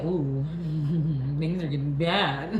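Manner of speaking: mock fleeing girlfriend. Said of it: "She said".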